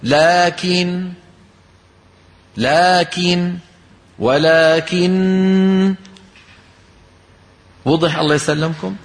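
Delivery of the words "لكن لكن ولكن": very slow "لكن، لكن، ولكن" hammering the doubled ن; mock overstressed recitation; exaggerated stress, wrong way. Shown as a demonstration. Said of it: "شو بنقول؟".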